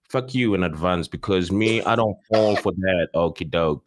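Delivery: usual speaking voice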